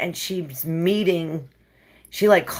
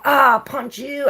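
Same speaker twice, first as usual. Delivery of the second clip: mean dream self; 7 semitones higher, 4 dB louder than usual. Retold or imitated. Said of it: "I was so mean".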